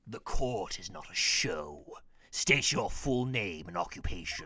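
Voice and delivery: deep, slow judge voice; stern judge. Acted. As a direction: boom it like a strict judge. Judge voice in game.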